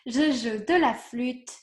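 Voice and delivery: a touch of native French accent. Shown as a demonstration. Teacher shows her own French accent on the phrase. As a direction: say it with a little French lilt. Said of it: "there I can have my little accent".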